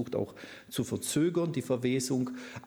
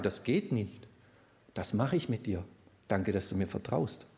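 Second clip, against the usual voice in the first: a touch of Jesus, gentle; 3 semitones lower than usual. Acted. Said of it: "da wird Jesus nicht sagen".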